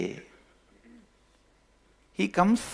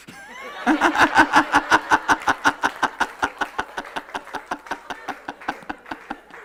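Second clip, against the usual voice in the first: laugh; 13 semitones higher than usual. Real, not acted. Laughs after own joke.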